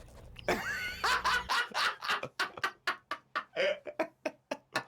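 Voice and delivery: long unvoiced wheezing laugh; breathy laugh. Real, not acted. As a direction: let out a long silent laugh. Laughs at his own joke.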